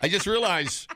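lost voice, hoarse and rough; talking through a worn-out voice. Real, not acted. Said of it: "lose my voice".

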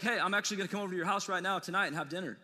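rushed and chummy; casual fast invite. Retold or imitated. Preacher voicing Jesus inviting himself over, chummy and fast. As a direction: toss the invitation off quickly. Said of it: "then he's like".

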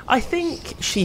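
high bright princess voice; a high girlish princess voice; Rapunzel voice. Acted. Rapunzel's voice in story.

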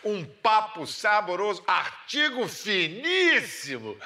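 sing-song market vendor pitch; hawking like a street seller; street vendor call. Acted. Host's playful street-vendor pitch.

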